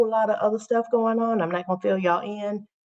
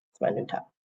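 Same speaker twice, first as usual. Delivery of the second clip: whisper; 8 dB quieter, faster than usual. Pretend. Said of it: "I got a new shirt".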